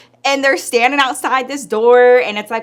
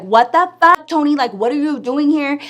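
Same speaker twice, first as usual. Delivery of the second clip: raised, higher voice, mock outrage; acted confrontation; 5 semitones higher than usual. Friend confronts her baby's father, acted indignant.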